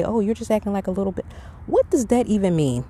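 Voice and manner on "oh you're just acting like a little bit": mocking taunt. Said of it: "How most people say".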